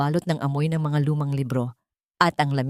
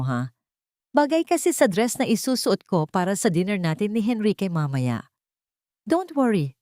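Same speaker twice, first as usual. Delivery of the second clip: smug mistress. Acted. Mistress mocking the wife over her necklace, sweetly smug. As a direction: toss the lines off like she owns the place. Elena taunts Isabela.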